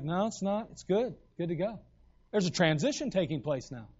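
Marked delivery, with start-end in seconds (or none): 0.0-1.8 softer, easy reassuring voice; calm reassurance. Retold or imitated. The Lord calmly answering Peter, softer and easy. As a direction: settle him down gently. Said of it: "And the Lord's like".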